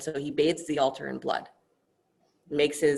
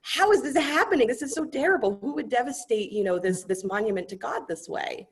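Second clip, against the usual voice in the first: much higher, louder, horrified wailing; distraught priest; 11 semitones higher, 4 dB louder than usual. Acted. Brahmin finds the altar bloodied again, high horrified lament. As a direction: wring your hands over the desecration. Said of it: "is like".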